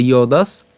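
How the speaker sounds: "যদাস" as iyo-daas, ending on s; closing dental s. Shown as a demonstration. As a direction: carry "যদাস" through to the final s. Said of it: "দন্তাস পর্যন্ত আমরা নিয়ে আসবো". ("যদাস" শেষে দন্ত্য স সহ)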